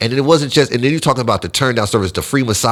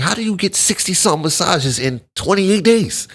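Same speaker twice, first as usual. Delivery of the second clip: higher, slower voice, stunned by the bill; incredulous brother; 9 semitones higher, slower than usual. Retold or imitated. Brother questions the massage charges, slow incredulous voice. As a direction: drag it out in disbelief. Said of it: "He was like".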